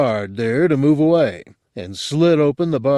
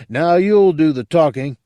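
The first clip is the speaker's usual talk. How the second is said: hard, louder threat, pitched up; a cold threat to a pinned drunk; hardest voice; 4 semitones higher, 5 dB louder than usual. Acted. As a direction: lean on him with a hard voice. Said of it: "I said in my hardest voice".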